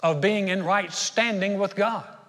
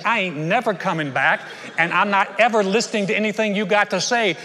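defiant telling-off; 2 semitones higher, 4 dB louder than usual. Retold or imitated. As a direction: give the ex-boss a piece of your mind, loud. Telling off ex-boss.

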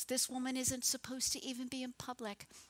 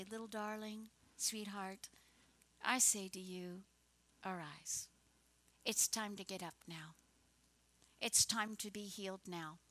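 soft, gentle coaxing; tender; 3 semitones lower, 4 dB quieter than usual. Acted. Jesus telling a little girl to arise, softly tender. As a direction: speak softly, as if waking a child.

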